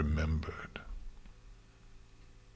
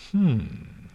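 high-pitched pondering "hmm"; murmured hum; 6 semitones higher than usual. A narrator's reading. Luna ponders her sister's answer, murmured hum. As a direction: hum it in thought, higher than usual. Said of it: "Luna murmured".

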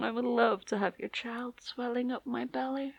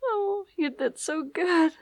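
tender praise. Acted.

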